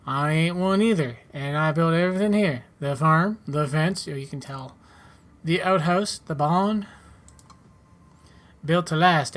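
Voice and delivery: a touch of a folksy settler character; lightly voiced farmer. Settler tells newcomer where to sell spares, lightly voiced farmer. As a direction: lightly act a helpful farmer advising a newcomer.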